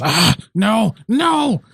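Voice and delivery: high-pitched cry of protest; villain's high, alarmed wail; Fizworth. Acted. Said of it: "Fizworth's voice coming from".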